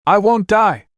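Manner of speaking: very high, determined shout; defiant shout. Acted. Naruto to Anna, defiant shout. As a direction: refuse to give in. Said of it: "Naruto shouted".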